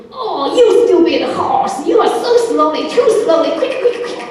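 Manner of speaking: high-pitched playful telling-off; mock scolding. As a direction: scold with exasperation, rising to an urgent high finish. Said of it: "Ma means to scold, to scold".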